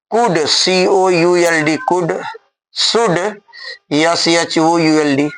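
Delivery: could, then spelled out slowly, letter by letter; slow dictation. Shown as a demonstration. Teacher to students, spelling slowly. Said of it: "धीरे धीरे बोलते हैं ताकि आराम से आप लिख लें".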